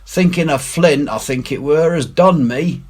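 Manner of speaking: nervous pirate; uneasy pirate voice. A narrator's reading. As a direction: mutter it like a spooked deckhand. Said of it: "growled Morgan".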